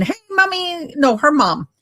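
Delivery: sweetly chirping to mommy in a put-on voice; mock sweet daughter. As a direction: read her letter like a doting girl. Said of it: "she's talking to mother-in-law again".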